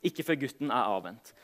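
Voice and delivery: measured Bible reading with pauses; solemn storytelling from scripture. A narrator's reading. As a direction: read the passage aloud to a congregation, phrase by phrase. Reads Bible passage aloud to congregation.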